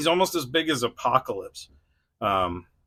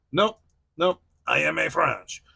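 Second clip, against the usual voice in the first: higher-pitched, mock-stubborn kid; imitating insistent daughter; 5 semitones higher than usual. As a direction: playfully insist like a little daughter. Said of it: "as my daughter would, would say".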